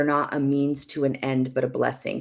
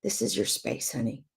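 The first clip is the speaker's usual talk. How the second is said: gentle, hushed invitation to a spouse; tender, hushed welcome; soft inviting voice; 3 semitones higher, 3 dB quieter than usual. Pretend. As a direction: softly coax him to come and talk. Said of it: "hold that to your spouse and say".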